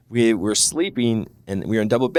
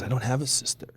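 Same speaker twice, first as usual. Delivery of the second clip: softened, lightly confidential voice; retold whisper; 7 dB quieter than usual. Friend confiding in a sleepover guest, half-whispered. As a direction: drop your volume as if passing a secret. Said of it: "he whispers to me".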